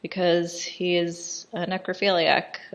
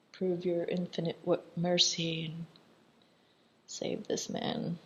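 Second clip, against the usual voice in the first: retold prayer; 9 dB quieter than usual. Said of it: "he starts praying".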